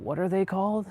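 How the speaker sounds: a private whispered aside while searching memory; whispered to self. Real, not acted. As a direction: whisper the question to yourself. Muttering to self, recalling name.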